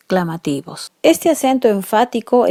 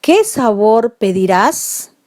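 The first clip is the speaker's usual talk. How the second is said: slow, louder asked question; question tune; 4 dB louder than usual. Shown as a demonstration. Teacher modelling an interrogative qué, questioning. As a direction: ask it clearly, as a model question. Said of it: "puedo decir".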